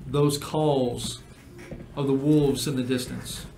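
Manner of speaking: measured game master narration; scene narration. Acted. Game master describing a journey to players, measured narration. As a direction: set the scene with deliberate pauses.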